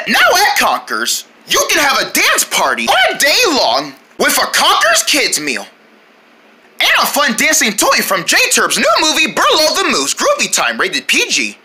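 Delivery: bouncy commercial announcer; pretend ad read. Announcer sells dance party kids meal, showy ad read. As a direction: sing the praises like a TV promo.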